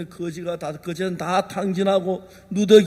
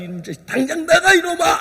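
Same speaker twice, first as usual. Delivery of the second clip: higher, sharp mock-angry shout; angry father; 7 semitones higher, faster than usual. Father in a mock fury, ordering his son out. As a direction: throw the boy out.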